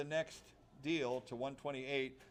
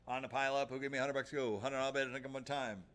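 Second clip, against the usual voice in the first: auctioneer. Acted. Auctioneer calling bids.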